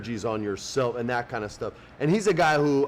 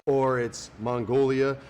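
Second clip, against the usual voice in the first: ordinary talk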